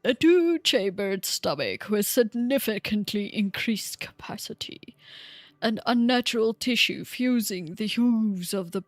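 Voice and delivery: lightly voiced old man; old guy voice. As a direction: read the notes like an old scholar. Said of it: "I'll do my old guy voice again".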